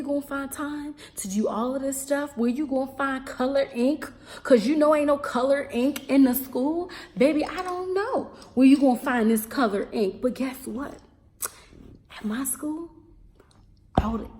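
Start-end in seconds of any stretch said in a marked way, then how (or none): 4.4-10.2 loud, higher-pitched comic exasperation; exasperated rant. Real, not acted. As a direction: rant it out with emphasis. Comic rant about missing ink.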